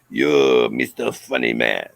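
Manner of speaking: peer over the glasses and crush him; stern teacher. Retold or imitated. Teacher looks up over her glasses at the boy, a low scornful verdict.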